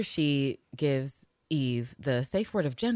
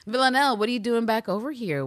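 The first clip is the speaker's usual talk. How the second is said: exasperated man; 5 semitones higher, 4 dB louder than usual. Retold or imitated. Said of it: "Nico is like".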